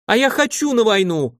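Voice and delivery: high squealing outburst; squealed. Acted. A girl's high, piercing squeal. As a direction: Marfusha demands to go to war, squealing high. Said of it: "взвизгнула Марфуша".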